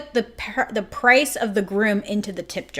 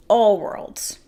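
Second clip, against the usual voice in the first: hushed whispered echo. Real, not acted. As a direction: breathe the echo out.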